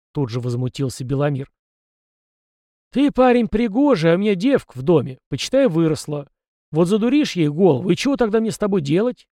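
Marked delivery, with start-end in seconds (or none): 2.9-9.3 put-on higher, louder, teasing sly old man; snide old man. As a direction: needle the lad with a sly grin. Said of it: "ехидно ответил старик". (ехидно, с усмешкой)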